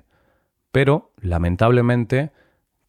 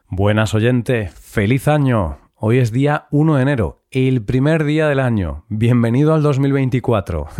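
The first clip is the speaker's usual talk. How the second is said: energetic greeting; 3 dB louder than usual. Real, not acted. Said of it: "Comienzas con mucha energía este año".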